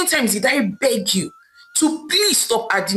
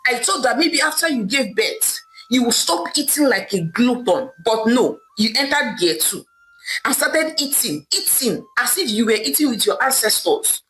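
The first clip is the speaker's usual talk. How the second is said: a touch of scornful anger, barely raised; dismissive husband, understated irritation; mildly angry. Acted. Husband brushing off his wife's tears, mildly angry. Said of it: "Okeke replied angrily".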